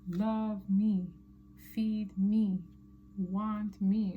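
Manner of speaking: lightly voiced needy cat; short, drawn-out pleas as a cat; mock crying cat. Tarot reader speaks for the crying cat on the card, mild mock pleading. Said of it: "looks like it's screaming or crying".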